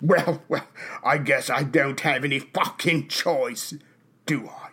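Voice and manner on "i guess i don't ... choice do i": put-on British statesman voice. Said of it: "you're gonna do a voice".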